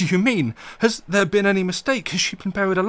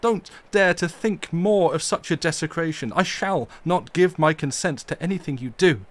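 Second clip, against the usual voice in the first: loud, higher, furious tirade; loud passionate fury defending her grave; storm of passion; 8 semitones higher, 8 dB louder than usual. Acted. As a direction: rage and plead against the desecration. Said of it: "cried Arthur in a storm of passion".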